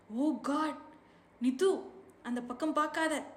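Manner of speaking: put-on a jolt of alarm, warn the child; sharp shock, kept fairly contained. A narrator's reading. Sees accident, warns girl.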